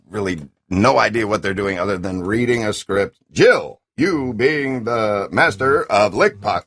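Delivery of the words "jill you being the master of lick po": bad game acting. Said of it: "a classic one from Resident Evil".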